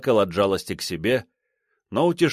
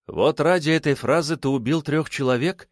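scornful question; contemptuous; 6 semitones higher than usual. A narrator's reading. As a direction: look down on him as you ask. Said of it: "презрительно спросила Парфентьева".

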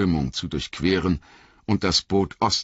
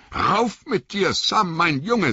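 urgent call; 3 dB louder, slower than usual. Acted. Frodo calls to drowning Sam.

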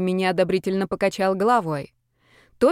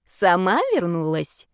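put-on slow doubting old man; very old faint voice; slower than usual. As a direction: ask slowly, hardly believing. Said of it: "не поверил её пожилой собеседник". (очень старый слабый голос)

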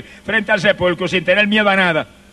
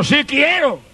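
a light Jesus voice, higher pitch; Jesus' reply; 6 semitones higher, slower than usual. Acted. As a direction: answer as a gentle, willing Christ. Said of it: "Y Jesús le dijo".

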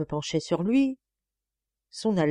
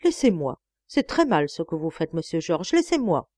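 pleading again; 3 dB louder than usual. Acted. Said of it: "et je répétais".

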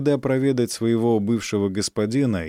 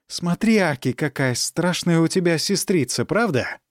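put-on cooing to a baby; 6 semitones higher than usual. Nurse speaks to baby.

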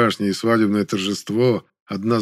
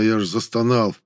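ordinary delivery

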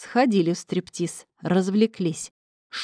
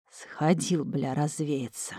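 slow, much softer rasp; hoarse wheeze; 3 semitones lower, 6 dB quieter, much slower than usual. A narrator's reading. Vova wheezes, thrown into the police van. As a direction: rasp it out, worn from the fight. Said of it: "прохрипел Володя".

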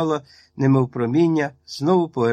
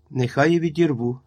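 ordinary delivery, nothing marked

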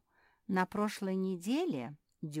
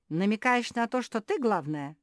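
angry; 6 semitones higher, 9 dB louder than usual. Acted. Beatrice keeps pressing angrily.

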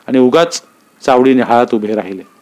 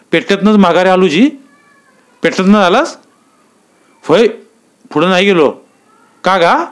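higher, urgent rustic voices; breathless report; 5 semitones higher than usual. Acted. Yetala tells Naik of the fight, urgent higher voice. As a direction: blurt the news out.

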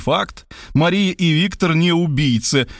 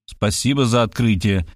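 lower, dry sarcastic thanks; 3 semitones lower than usual. Acted. Writer sarcastically thanking the detective for her insight. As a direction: needle her with mock gratitude. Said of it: "съязвил я".

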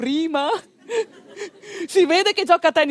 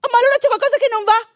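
worried; 8 semitones higher, 4 dB louder, faster than usual. Retold or imitated. Panic after caesarean news.

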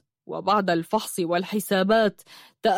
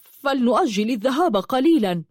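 hesitant, pitched-up suggestion; acted reluctance, higher pitched; 4 semitones higher than usual. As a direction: propose it with reluctance, voice lifted. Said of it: "قال بركات بتردد".

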